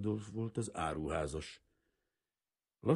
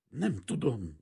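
higher, stumbling words; stammered reply; 6 semitones higher, 4 dB louder, slower than usual. A narrator's reading. The frightened maid stammers to Kazimír, scared. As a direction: stammer it out in fear. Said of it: "dadogta a leány".

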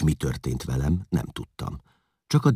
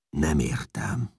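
growled; slower than usual. A narrator's reading. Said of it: "mordult meg Csát".

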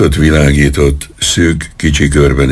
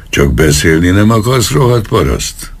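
snapped insult; 6 semitones higher than usual. A narrator's reading. Policeman insults old man for refusing Romanian, moderately angry snap. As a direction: snap indignantly, climbing high. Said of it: "csattant fel az egyenruhás".

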